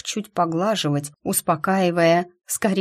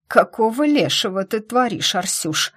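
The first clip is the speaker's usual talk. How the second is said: hoarse hiss; 4 semitones higher than usual. Acted. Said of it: "прошипела ... хрипловатым голосом".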